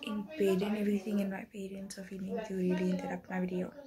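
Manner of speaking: hushed bedtime vlog whisper. Real, not acted. Vlogger in bed updating viewers late, whispering. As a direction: keep it to a soft whisper. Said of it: "so I'm whispering".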